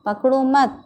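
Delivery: पकड़ो मत as one high phrase, then a pause; jeda setelah मत. Shown as a demonstration. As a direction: join मत to पकड़ो and stop after it. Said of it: "अल्प विराम".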